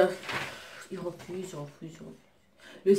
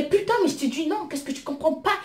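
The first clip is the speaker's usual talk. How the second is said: louder and higher, a mock yell; retold yelling; 4 semitones higher, 5 dB louder than usual. Telling off the pushy date, reenacted half-shouted tirade. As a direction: replay the blow-up at the guy. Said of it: "j'ai crié ce jour-là".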